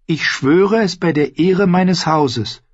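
slow, high, earnest oath; solemn. Acted. Ned swears to Arya on his house, solemnly. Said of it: "wiederholte er feierlich".

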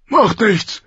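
high, gruffly dismissive king's voice; curt royal dismissal; brusque king. A narrator's reading. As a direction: wave it off brusquely, pitched well up. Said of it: "sagte der König barsch".

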